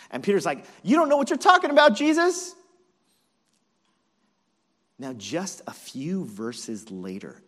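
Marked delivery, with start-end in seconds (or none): 0.8-2.5 fast, high, shouted retort; cocky, rapid-fire comeback at top volume; hammed-up indignant bravado; Brooklyn swagger. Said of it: "like, a Brooklyn swagger".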